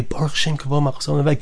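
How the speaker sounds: quiet prayerful recitation; said quietly. Shown as a demonstration. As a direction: murmur the line quietly, like a private response. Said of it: "And then we say quietly".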